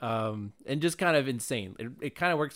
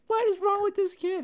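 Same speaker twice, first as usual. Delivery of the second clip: high, loud disbelief at the start; exaggerated high disbelief, then settling; incredulous outrage; 5 dB louder than usual. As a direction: protest like the kid is clearly lovely. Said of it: "And I'm like".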